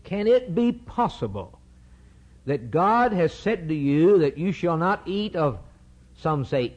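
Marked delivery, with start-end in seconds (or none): 0.0-5.6 lightly voiced sly serpent questioning; serpent's coaxing question. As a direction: coax her like the serpent. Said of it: "He's saying this".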